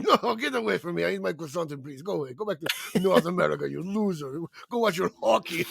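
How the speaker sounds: mock snooty French. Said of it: "And they're like".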